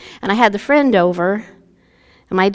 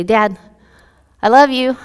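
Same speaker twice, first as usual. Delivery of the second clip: put-on wheedling child; 4 semitones higher, 6 dB louder than usual. Child sweet-talking dad for quarter.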